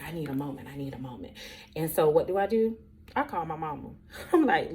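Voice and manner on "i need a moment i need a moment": tearful and quiet. Retold or imitated.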